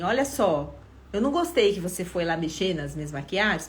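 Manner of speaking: a mildly reproachful version of the scolding; reproachful demo. Shown as a demonstration. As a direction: show the disapproving way to say it. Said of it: "Se eu chegasse falando assim". (versão levemente reprovadora)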